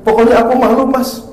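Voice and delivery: high, loud whining wife; whiny wife. Retold or imitated. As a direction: demand it like a sulking wife. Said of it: "Istri berkata". (istri merengek, nada tinggi dan keras)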